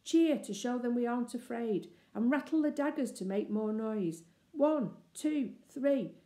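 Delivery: rallying. Acted. Robert rallies the others.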